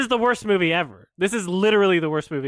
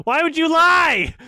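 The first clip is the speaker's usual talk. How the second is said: louder and higher, laughing through it; laughing outrage; 9 semitones higher, 6 dB louder than usual. Real, not acted. Reviewer accusing the filmmakers, laughing loud outrage. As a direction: burst out in laughing disbelief.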